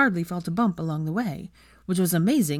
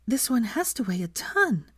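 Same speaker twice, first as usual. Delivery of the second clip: fearful awe; 5 semitones higher than usual. Acted. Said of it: "she said in awe".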